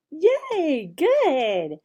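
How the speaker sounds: bright little praise; gentle praise. Shown as a demonstration. Teacher praising a child, bright and light. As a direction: reward the answer warmly. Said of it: "See, simple".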